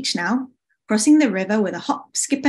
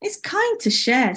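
gentle, higher-pitched voice; smiling; 4 semitones higher than usual. Acted. Spring soothes Summer about sharing, smiling voice. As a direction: say it with a smile. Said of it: "smiled Spring".

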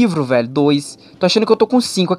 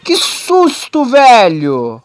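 startled; 4 dB louder, much slower than usual. Real, not acted. After jump scare.

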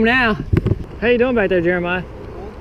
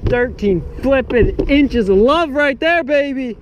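proud; 6 semitones higher, slower than usual. Real, not acted. Proud of his fish.

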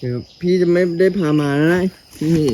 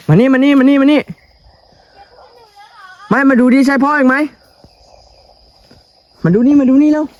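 calling out; 13 semitones higher, 5 dB louder than usual. Real, not acted. Calling the child over.

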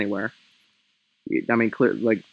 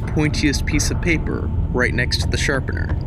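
spooky storyteller reading; story narration. Acted. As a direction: read it like a campfire tale. Reads a spooky Halloween tale.

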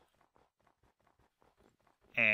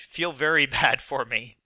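laughing plea; 3 semitones higher, 4 dB louder than usual. Pretend. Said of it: "please don't make fun of me".

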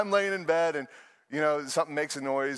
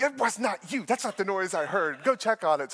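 mock indignant insistence; 3 semitones higher than usual. Wife ordering husband to check the noise, mock indignant. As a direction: imitate a wife not having it. Acting wife rejecting his fib.

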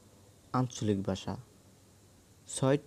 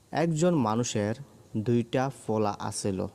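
Dhaka dialect. Shown as a demonstration. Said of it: "ঢাকার আঞ্চলিক ভাষা হলো".

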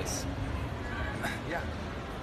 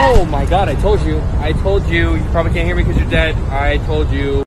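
loud I-told-you-so; 5 dB louder than usual. Acted. Scolding friend after ladder accident.

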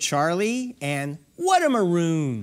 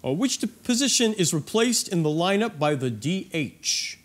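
lower, jock-style quizmaster; 3 semitones lower than usual. Pretend. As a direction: ask it like a laid-back jock. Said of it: "say it in more of a jock voice".

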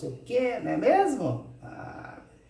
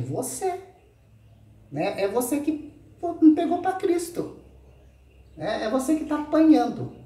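pointed accusation; 11 semitones higher, 4 dB louder than usual. Real, not acted. Accusing rival directly.

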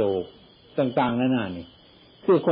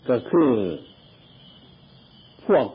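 emphatic preaching; 4 semitones higher than usual. Real, not acted. Emphatic sermon point.

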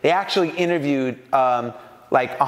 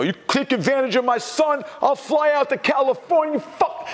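much higher, mock-furious Brooklyn dad warning; threatening dad; 10 semitones higher than usual. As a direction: play the overprotective father blowing up. Dad imagined threatening label.

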